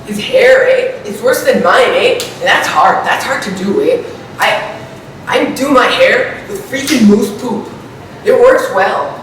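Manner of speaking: put-on Canadian accent with tacked-on "eh"; hammed-up Canadian accent. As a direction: play a caricature Canadian, "eh" after every thought. Parody Canadian talk, eh everywhere.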